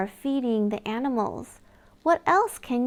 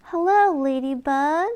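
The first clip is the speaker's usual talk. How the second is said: bright hello; 2 semitones higher, 6 dB louder than usual. Acted. Greeting a ladybug for a toddler, excited hello.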